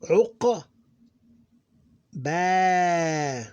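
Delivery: short "Uq", then long "Ba"; quick "Uq", pause, stretched "Ba"; two syllables. Shown as a demonstration. Teacher showing two syllables, short "Uq", held "Ba". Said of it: "Two syllables".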